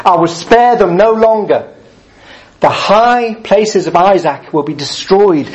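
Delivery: slow, measured Bible reading; scripture reading. Acted. Preacher reading Amos to the congregation, slow and measured. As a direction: read the passage deliberately to the congregation. Reads Amos chapter seven aloud.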